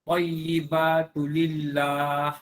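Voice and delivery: Thayyibatu lillah drawn out very slowly; slow careful Thayyibatu lillah; recitation demo. Shown as a demonstration. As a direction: stretch Thayyibatu lillah syllable by syllable. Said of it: "Apa beza dia?".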